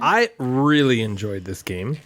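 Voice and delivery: slow, low and deadpan; monotone. Shown as a demonstration. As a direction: drone it out with no enthusiasm. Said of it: "In a monotone voice".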